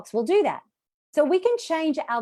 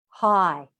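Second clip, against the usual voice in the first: drawn-out, slightly lowered "Hi"; low hi; 3 semitones lower, 4 dB louder than usual. Shown as a demonstration. Teacher models lowering the jaw, low hi. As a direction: drop your jaw and let the word sit low. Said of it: "I want you to say a low hi".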